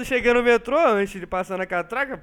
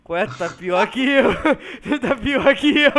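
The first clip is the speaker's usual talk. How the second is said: laughing it out, louder at the end; laughing while quoting; 2 semitones higher, 5 dB louder than usual. Retold or imitated. Telling the kid he's worse off, laughing. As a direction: crack up mid-quote. Laughing at the kid's soaked stuff.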